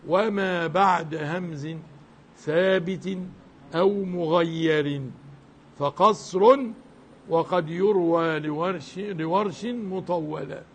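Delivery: slow chanted reading of a teaching poem; measured, slow poem chanting; verse recitation. Acted. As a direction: draw each word out like a recited ode. Recites Shatibiyya verse lines.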